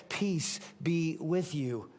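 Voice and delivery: soft, slow and calm; gentle greeting. Acted. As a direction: settle a frightened room. Jesus greets frightened disciples.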